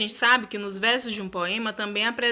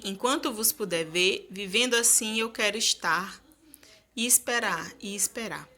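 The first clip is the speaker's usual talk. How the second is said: poem recital. Shown as a demonstration. Teacher reading a troubadour love song to the class. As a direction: recite the stanza gently, fading at the end. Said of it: "Vamos ver a primeira estrofe".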